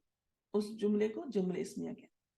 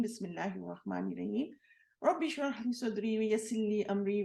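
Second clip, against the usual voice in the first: reciting opening prayers. Acted. Teacher opens her Arabic lesson with prayers, recited devoutly.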